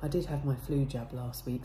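ordinary delivery

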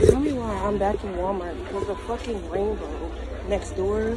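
muffled by cloth mask; speaking behind covered mouth; through a face mask. Real, not acted. Seen 0: Mask covers mouth and nose throughout; pulled down under chin before.

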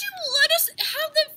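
laughing. Real, not acted. Laughing argument.

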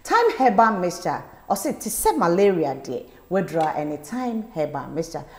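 punchy promo read, brand name hit hard. Acted. Host reading a herbal medicine ad, punchy. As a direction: push the herbal mixture.

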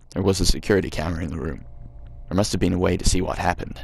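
put-on reading the game text in a light American accent. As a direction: narrate it like an American storyteller, gently put on. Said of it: "I'm really regretting doing the American voice now".

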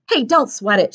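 lightly reassuring; easy, friendly reassurance; with a smile. Acted. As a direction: brush it off kindly, smiling. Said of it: "said with a smile".

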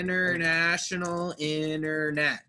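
"International internet" as "innernational innernet"; silent T. Shown as a demonstration. Teacher models for a student to copy, silent T. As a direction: stretch it out with no T after N. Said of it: "Try to say it like this".

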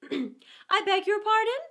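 high, drawn-out offended politeness; polite displeasure. A narrator's reading. Mouse to the interrupting Lory, politely put out. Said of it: "frowning ever so slightly. But he said politely".

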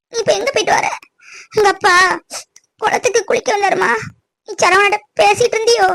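tearful, halting account; upset mother on the edge of crying. Acted. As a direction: tell it in pieces through tears. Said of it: "ஏன் அழுற?".

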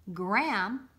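breathy whispered name; a quick playful whisper. Acted.

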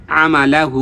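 আমালাহু with quick short syllables and long হু; elongated ending. Shown as a demonstration. Teacher modelling quick harakat and madd, আমালাহু with stretched ending. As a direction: run through আমালা, then hold out হু. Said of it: "মাদের হরকত এক আলিফ".

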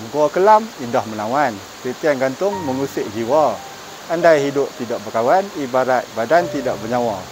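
lightly measured verse recitation; a touch of poetry-reading cadence; pantun recital. Acted. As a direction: recite it line by line as a rhymed pantun. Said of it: "tak sah pula kalau tak berpantun".

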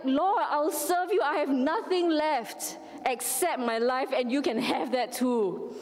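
preacher voicing the broken husband answering God; through his tears. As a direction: offer your life through tears. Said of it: "through his tears".

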